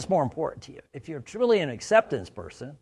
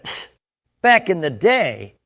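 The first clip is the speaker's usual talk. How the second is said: dismissive; 3 semitones higher, 6 dB louder, slower than usual. Retold or imitated. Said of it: "the guy went".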